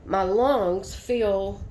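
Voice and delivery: winded, short of breath. Real, not acted. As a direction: talk through heavy, labored breathing. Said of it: "I am very out of breath".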